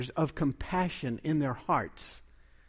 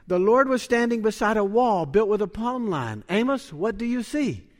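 loud, high, proclaiming as the Lord speaks; booming voice of God; 7 semitones higher, 6 dB louder than usual. Acted. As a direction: boom out God's question to Amos. Preacher voicing God's words.

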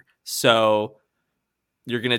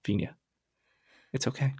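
1 reassuring; 5 dB quieter, faster than usual. Acted. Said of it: "and she says".

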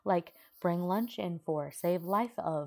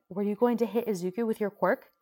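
louder and higher, accusing; angry accusation; 5 semitones higher, 8 dB louder than usual. A narrator's reading. Uraraka accuses Bakugo of attacking Izuku, angry. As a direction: demand an answer in anger.

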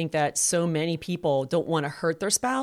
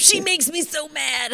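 put-on higher, slow sulky teen whine with a laugh; imitating a sulky son who blames his sister; pouty teenager; 9 semitones higher, slower than usual. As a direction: play the sulking teenage boy, laughing through it. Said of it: "he was all pouty and mad".

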